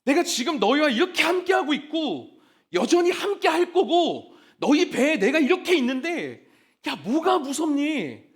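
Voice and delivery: a light touch of a gentle father reassuring, slowing at the end; lightly voiced father comforting his frightened children; fatherly tone. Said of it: "약간 아버지의 말투". (겁먹은 제자들을 다독이는 아버지 말투를 살짝 흉내 내며)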